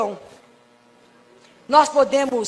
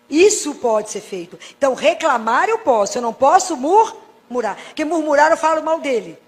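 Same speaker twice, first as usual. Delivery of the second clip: ordinary delivery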